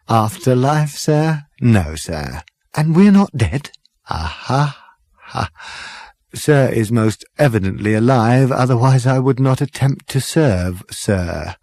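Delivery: smooth and deferential, serving sir; polite waiter. Acted. Waiter character voice.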